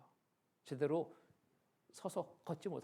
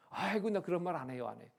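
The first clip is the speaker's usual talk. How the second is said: higher, louder mock protest; indignant denial; 4 semitones higher, 4 dB louder than usual. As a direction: act out a grandmother flatly denying it. Acted denial by the grandmother. (펄쩍 뛰며 부인하는 할머니 흉내)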